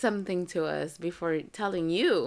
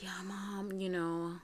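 put-on deadpan kid keeping up a tall tale, softly begun; straight-faced; 5 dB quieter than usual. Son sells his fake lawsuit to Mom, straight-faced. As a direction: imitate a son fibbing without a trace of laughter. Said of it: "he had such a serious face".

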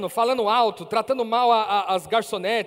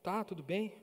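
very soft, lower, reluctant agreement; sheepish; 4 semitones lower, 13 dB quieter than usual. Retold or imitated. Troubled customer reluctantly accepting a seat, quietly sheepish. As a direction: give in quietly, imitating his awkwardness. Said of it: "meio sem graça".

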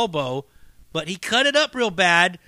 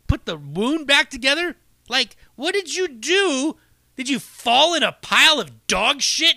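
higher, mock-outraged grilling; incredulous scolding; 5 semitones higher than usual. Telling Adam off about his elbow, incredulous. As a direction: pile on the disbelief. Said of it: "And then I told him, like".

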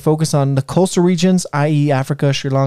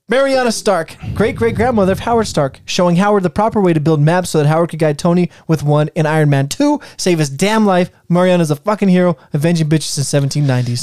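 louder retake; 2 semitones higher than usual. Shown as a demonstration. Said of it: "I'm gonna try that again".

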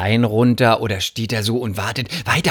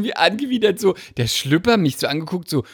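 ordinary talk, nothing marked

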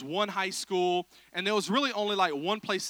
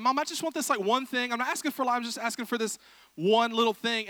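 higher-pitched begging child, lightly voiced; pleading kid; 5 semitones higher than usual. Preacher as a child begging mom in the store, lightly pleading. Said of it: "when you're a little kid".

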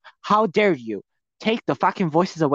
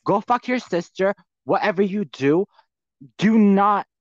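angry rant; 4 semitones higher than usual. Real, not acted. Ranting at Trisha over her accusation, furious. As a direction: tear into her, building fury.

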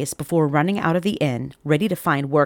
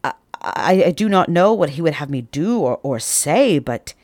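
nervous stammer; 3 dB louder than usual. Acted. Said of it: "a mix of fear and wonder".

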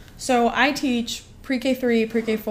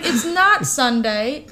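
slow, laughing through the words; slow amused teacher laughing at the answer; laughing correction; 4 dB louder, slower than usual. Retold or imitated. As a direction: break into a laugh mid-line. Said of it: "I was like".

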